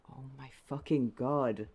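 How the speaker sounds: exasperated. Real, not acted. Frustrated outburst.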